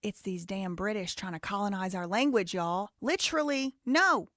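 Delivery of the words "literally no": Literally, no! said louder and higher, in protest; emphatic no. Real, not acted. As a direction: burst out in playful protest. Mocking the clip's use of literally.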